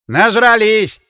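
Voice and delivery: annoyed host voice; indignant character. Acted. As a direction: spit it out in disgust. Arkasha complains about drunk friends.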